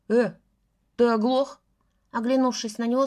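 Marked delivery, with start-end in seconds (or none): 0.1-1.6 louder, rising irritation; getting angry. A narrator's reading. Лёша turns on Гриня, getting angry again. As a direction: flare up at him. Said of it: "снова стал заводиться Лёша".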